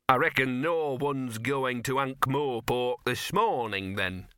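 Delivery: slow, drawn-out dog character voice; talking dog, knowing. Acted. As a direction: drawl it as a know-all little dog.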